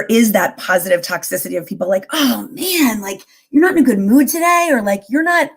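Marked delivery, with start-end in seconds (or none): 2.1-4.7 higher-pitched mock dismay; disappointed acquaintance. Guest voices people expecting positivity, higher mock disappointment. 5.1-5.5 lightly mimicked, higher-pitched concern; concerned acquaintance. Guest imitates people expecting positivity, lightly acted higher concern.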